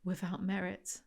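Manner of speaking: very soft, almost whispered. A narrator's reading. The narrator whispers to herself, very softly. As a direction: breathe the words to no one. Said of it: "I whisper to no one".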